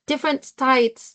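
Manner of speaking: mimicking an Australian "states" that sounds like "stites"; Australian accent. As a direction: imitate an Australian client saying states, slowly. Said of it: "iba talaga yung accent niya".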